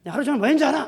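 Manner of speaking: loud, high indignant outburst; angry wife. Acted. Wife exploding at husband after a whole day working, angry. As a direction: lash out at him, voice jumping up. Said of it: "여자가 확 화가 나죠".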